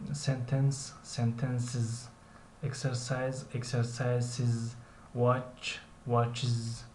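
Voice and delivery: "سنتنس", then "سنتنسز" with an extra syllable, iz; singular, then iz plural. Shown as a demonstration. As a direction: contrast each pair, ending "واچز" in -iz. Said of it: "ایز تلفظ می شود".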